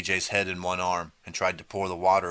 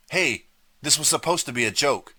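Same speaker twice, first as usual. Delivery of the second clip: high, louder, panicky protest; shrill, frightened protest; shrill, trembling; 8 semitones higher, 5 dB louder than usual. A narrator's reading. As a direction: let the voice go up in fear. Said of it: "in a shrill, trembling voice".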